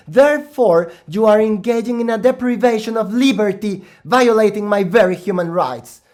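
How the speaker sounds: loud, indignant lecture from a small gnome. Acted. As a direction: scold the barbarians with offended pride.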